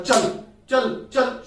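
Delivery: slow, drawn-out loud shouts; shouting at the cockroach to move; very loud command. Retold or imitated. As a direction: yell each word slowly at the bug. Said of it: "बहुत जोर से बोला".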